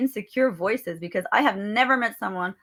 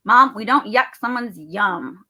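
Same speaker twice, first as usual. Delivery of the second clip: put-on slow, louder child's admonishment; imitated kid; 6 dB louder, slower than usual. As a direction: imitate a kid firmly setting Mom straight. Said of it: "She goes".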